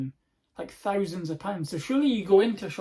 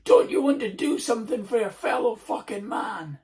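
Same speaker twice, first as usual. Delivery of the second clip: higher, louder put-on voice; mock indignant beggar; guilt-trip demand; 6 semitones higher, 5 dB louder than usual. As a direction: scold like the rude stranger. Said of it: "and he went".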